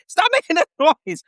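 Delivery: high-pitched exasperated order; mock sergeant yell. Drill sergeant silencing squealing recruit, high mock yell. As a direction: imitate a sergeant at his wits' end.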